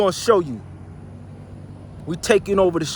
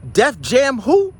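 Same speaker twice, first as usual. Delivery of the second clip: mocking dismissal; 5 semitones higher, 4 dB louder, slower than usual. Real, not acted. Mocking a rival label.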